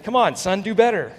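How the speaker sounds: imitating a dad prodding his son; stern dad. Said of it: "dad's like".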